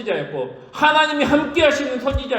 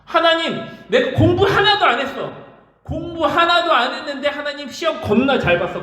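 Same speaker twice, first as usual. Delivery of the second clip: higher, laughing brag; boastful kid; 6 semitones higher than usual. Pretend. A student boasting to God about the exam, higher and laughing. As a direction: show off like a cocky student. Mock bragging believer.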